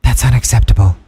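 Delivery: low, loud character voice; Mutilator. Acted. Character interrupts the hosts to give a verdict, deep and loud. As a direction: drop deep and pronounce judgment loudly. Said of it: "the mutilator wants to say something".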